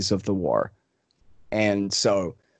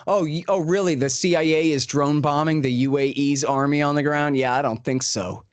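higher-pitched incredulous scoff, easing down; mock scoffing; 3 semitones higher than usual. Reporter scoffing at the question about the war, retold with mock disbelief. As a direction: imitate a dismissive, sarcastic reply. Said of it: "he just laughs and scoffs".

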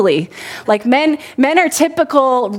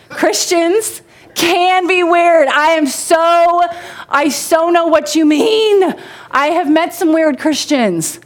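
mock agreement; 7 semitones higher, slower than usual. Exaggerated agreeing with skeptics.

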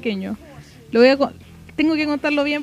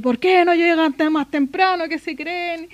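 scared brother scolding; 4 semitones higher, slower than usual. Retold or imitated. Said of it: "tu hermano estaba cagado de miedo".

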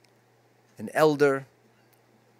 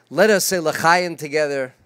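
rousing call; 3 semitones higher, 6 dB louder than usual. Real, not acted. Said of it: "leads toast".

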